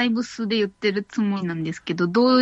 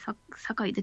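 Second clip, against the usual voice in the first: whispering; 11 dB quieter than usual. Acted. Repeats the pun back.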